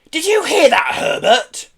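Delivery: high, loud outraged shriek. A narrator's reading. Pelly to her husband after an insult, shrieking. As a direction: shriek to summon support. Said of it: "shrieked Pelly".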